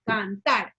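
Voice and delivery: "cantar" drawn out slowly, weight on TAR; stress on last syllable. Shown as a demonstration. Teacher showing an aguda word, stress on TAR in "cantar". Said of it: "Lleva el acento en la última sílaba".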